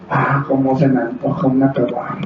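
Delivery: soft, low voiced craving; tempted thinking. Preacher voices a believer's tempted thought, longing mock inner voice.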